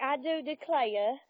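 put-on soft old Southern accent, drawn out slowly; antebellum southern accent. Shown as a demonstration. Showing a friend the old man's antebellum Southern accent. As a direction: say it in a slow Civil War-era Southern accent. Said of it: "it's a soft southern accent".

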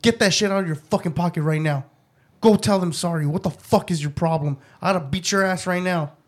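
forceful parental telling-off, re-enacted; retold scolding. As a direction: order the child sternly, as retold. Parent scolding child in retold story.

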